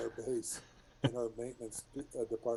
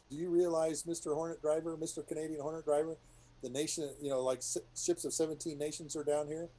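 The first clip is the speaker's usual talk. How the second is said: mock stern ship; 5 semitones higher than usual. Ship lecturing the pilot.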